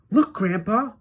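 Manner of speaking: put-on eager child pointing something out; excited cry. A narrator's reading. Charlie calls to Grandpa, excited. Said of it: "cried Charlie".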